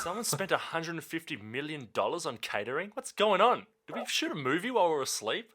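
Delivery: high baffled rising questions; baffled executive. Pretend. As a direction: play a stunned studio boss. Voicing confused studio staff.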